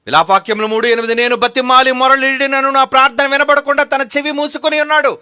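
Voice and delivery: loud, high, sustained preaching chant; forceful scripture declamation. Real, not acted. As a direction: proclaim the verse in one ringing stream.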